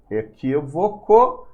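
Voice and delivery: "Equívoco" stretched slowly into its syllables. Shown as a demonstration. Teacher counting syllables for students, drawn out syllable by syllable. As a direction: sound out "Equívoco" slowly, each syllable apart.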